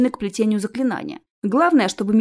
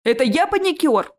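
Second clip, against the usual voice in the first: higher-pitched, offended comeback; 5 semitones higher than usual. Acted. Ches answers being called a panicker, offended. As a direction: question the insult, affronted. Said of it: "обиделся Чес".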